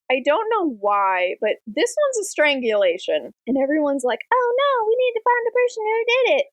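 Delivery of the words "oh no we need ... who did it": high-pitched mock panic; mock alarm. Townsfolk reacting to a murder, mock alarm. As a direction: fret in an exaggerated high voice.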